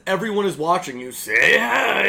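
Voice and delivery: badly faked cartoon robot calling to the viewers; attempted Bender voice. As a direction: ham up a booming on-air taunt. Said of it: "but in a Bender voice I can't do".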